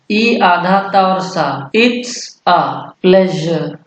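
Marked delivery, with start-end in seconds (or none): 1.8-3.8 "It's a pleasure" slowly, split word by word; word-by-word pronunciation. Shown as a demonstration. Teacher showing learners how it is read, word by word. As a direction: pause between "It's", "a" and "pleasure". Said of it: "इसे it's पढ़ेंगे".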